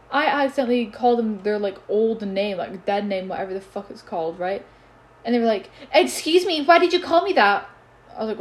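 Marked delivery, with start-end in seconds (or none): 5.9-7.7 mock whiny complaint. Mocking the person who complained.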